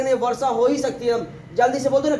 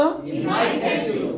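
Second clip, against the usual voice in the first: quicker run-through of the same line; said fast; 3 semitones higher, much slower than usual. Shown as a demonstration. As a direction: rattle it off in one breath. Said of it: "first बोलो". (तेज़ी से एक साँस में बोलना)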